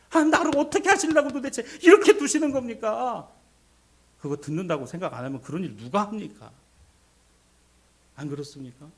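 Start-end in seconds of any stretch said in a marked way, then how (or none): 0.1-3.3 loud, high-pitched protest to heaven; crying out. Acted. Believer demanding answers from God, crying out. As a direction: shout the complaint up at God. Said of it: "소리라도 지르는 거 아니겠어요".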